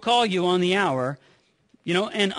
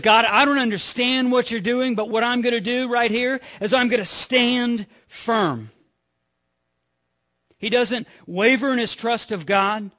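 raised, determined declaration; firm resolve; 4 semitones higher, 4 dB louder than usual. Retold or imitated. Habakkuk telling God he will stand firm, loud and determined. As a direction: plant your feet and proclaim it louder.

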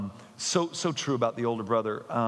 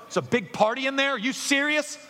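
incredulous voice; 13 semitones higher, 3 dB louder than usual. Acted. Voicing the older brother's questioner.

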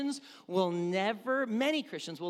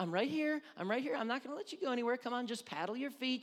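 acted swim-lesson reassurance, pitched up; coaxing parent; 5 semitones higher, faster than usual. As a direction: coax a frightened child to keep paddling. Parent coaxing child in the water.

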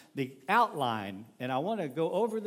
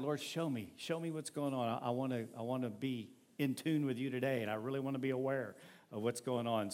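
hushed prayer; 3 semitones lower, 5 dB quieter than usual. Retold or imitated. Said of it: "asking God".

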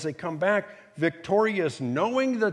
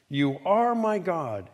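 slow, firm declaration; confident affirmation. Acted. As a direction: affirm it with deliberate weight. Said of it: "of great confidence and affirmation".

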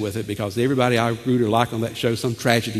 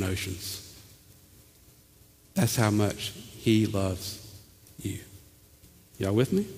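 tender reassurance. Acted. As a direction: gently assure them they are loved.

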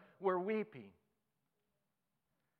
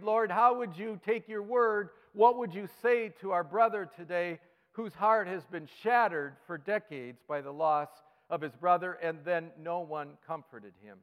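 higher, louder pleading prayer; fervent prayer; 3 semitones higher, 6 dB louder than usual. Acted. Pastor praying for a grieving brother, fervent plea. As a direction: pray it with urgency.

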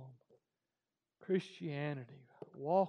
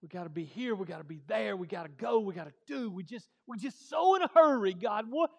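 rising to a loud, high cry; building to a shout; 4 semitones higher, 11 dB louder, faster than usual. Real, not acted. Preacher crying out about busy lives, building to a shout. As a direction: build each line louder until it bursts.

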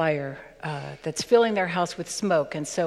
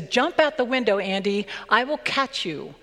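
put-on raised call to the boy above; father calling up; 4 semitones higher than usual. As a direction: shout up to the window, urgent. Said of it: "and he says".

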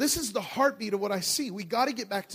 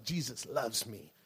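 tender; 7 semitones lower, 7 dB quieter than usual. Retold or imitated. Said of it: "he bragged about himself".

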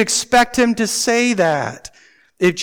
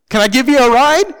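lightly imitated helpful neighbor, raised pitch; a hint of an eager cartoon neighbor, louder; Ned Flanders; 6 semitones higher, 7 dB louder than usual. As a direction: offer it like an over-obliging neighbor. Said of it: "They were the Ned Flanders neighbors".

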